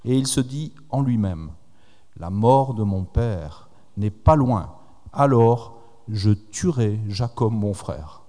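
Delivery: reading the Bible passage aloud, measured; scripture reading. Acted. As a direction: read the verses to the congregation. Lecture de la Bible. (lecture solennelle des Écritures)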